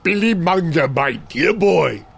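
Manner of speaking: lightly voiced plummy English gentleman, fond and patient; a hint of a genteel old tutor calling him dear boy; Stephen Fry. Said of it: "Stephen Fry".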